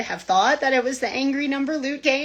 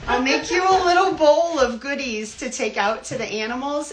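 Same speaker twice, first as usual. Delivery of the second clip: quoting a friend; 4 semitones higher than usual. Retold or imitated. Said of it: "Sunshine said".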